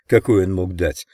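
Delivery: ordinary delivery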